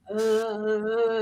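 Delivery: low, soft drawn-out "uh"; mock trance groan. Imitating a man poked in a trance, low mock groan.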